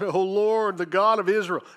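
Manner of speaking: preacher's mild mock lament; lifted-voice lament. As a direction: imitate a people calling out to the Lord. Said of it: "lifted up their voices and wept bitterly".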